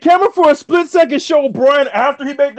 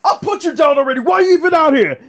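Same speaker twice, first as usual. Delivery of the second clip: mock taunt; 5 semitones higher than usual. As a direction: throw it at him like a shout. Joe taunting Jeff retold.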